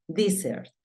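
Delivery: "Desert" said as dee-sert; pronunciation demo. Shown as a demonstration. Teacher naming the sand desert in English, pronunciation demo. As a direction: model "Desert" with an EE first vowel. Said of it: "va a sonar di".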